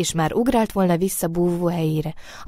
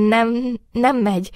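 louder, higher groaned refusal; pained groan; 5 semitones higher, 5 dB louder than usual. A narrator's reading. Trembling rabbit admits it cannot, groaning. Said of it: "nyögte kínosan a remegő Nyuszi".

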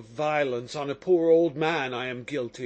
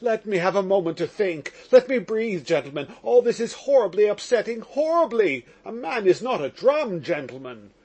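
louder, insistent plea to be allowed a minute; urgent interjection; 5 dB louder than usual. Acted. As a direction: cut in hard, begging for breath. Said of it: "interposed Mitya".

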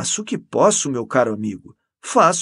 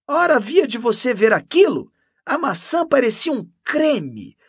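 loud, high, excited enthusiasm; gushing; 9 semitones higher, 7 dB louder than usual. A narrator's reading. Canon boasting of her gifts to Mendes, gushing. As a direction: gush over each treat, pitched well up.

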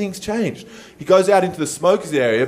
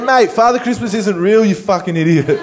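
louder, higher mock scolding; mock exasperated; 3 semitones higher, 4 dB louder than usual. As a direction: snap at the kid in jest. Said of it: "I was like".

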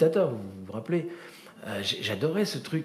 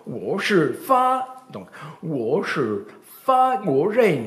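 mock teacher; 3 semitones higher, 4 dB louder, much slower than usual. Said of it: "Elle disait".

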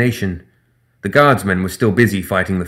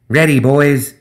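high, eager gremlin call; rally the crew like a cocky gremlin; gremlin captain; 5 semitones higher, 4 dB louder, slower than usual. Acted. Gremlin Zip's voice.

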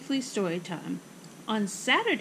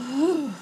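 higher voiced "whew" exhale; deep breath out; 4 semitones higher, 4 dB louder than usual. Mother and daughter steady themselves, deep exhale. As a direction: puff out a calming breath. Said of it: "they let out a deep breath".

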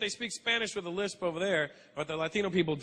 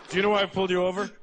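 cop; 8 dB louder, faster than usual. Retold or imitated. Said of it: "cop at traffic stop".

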